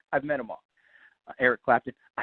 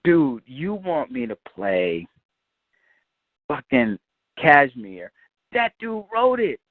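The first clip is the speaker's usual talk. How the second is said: slow, stunned disbelief, climbing higher at the end; incredulous; 5 semitones higher, much slower than usual. Retold or imitated. Guitarist to engineer, stunned that the song's author is sitting there. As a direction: drag it out in shock. Stunned he must play for the song's author.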